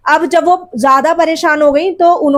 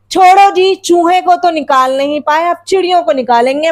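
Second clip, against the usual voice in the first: lightly voiced scoff, raised on the opening; teasing sarcasm. Mother mocking father's boast about the sparrows, mild sarcasm. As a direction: brush it off with mild mockery. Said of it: "माँ ने व्यंग से क्या कहा".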